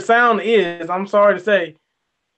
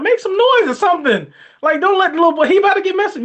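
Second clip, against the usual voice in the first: higher-pitched exasperated urging; urgent exasperation; 8 semitones higher, faster than usual. Retold or imitated. Viewer urging a movie dad to save his boy, exasperated. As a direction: plead with them to act, pitch raised.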